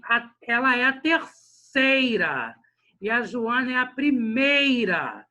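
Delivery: slow verse, "terceira" and "primeira" stretched on EI; stressed rhyme on EI. Shown as a demonstration. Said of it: "tá rimando com ei e não com urá".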